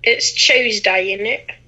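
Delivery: put-on British accent; mock British accent. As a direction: play the London teen. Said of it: "we have a good British accent".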